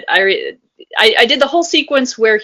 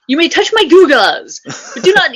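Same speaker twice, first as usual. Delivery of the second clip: Comic Book Guy voice; 6 semitones higher, 3 dB louder than usual. Retold or imitated.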